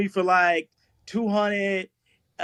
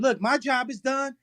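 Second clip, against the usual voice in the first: higher, lightly voiced wife; a hint of the wife's voice, pitched up; imitated wife; 6 semitones higher than usual. Husband retelling his wife quitting on him, lightly imitated wife. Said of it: "She said".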